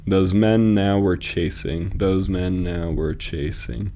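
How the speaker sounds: slow, measured scansion; metrical, deliberate pacing; syllable-counting reading. Shown as a demonstration. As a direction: draw out each syllable so it can be counted. Testing the line's rhythm.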